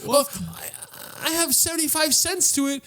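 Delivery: high squeaky ghost voice; broke ghost. Retold or imitated. A broke ghost offering cents for tequila, high and squeaky. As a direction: whine about your few cents. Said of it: "they're like".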